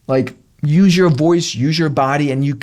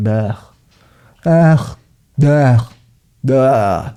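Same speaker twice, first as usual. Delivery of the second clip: disgusted ugh; 4 semitones lower, much slower than usual. Shown as a demonstration. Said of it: "Give it the fuck up".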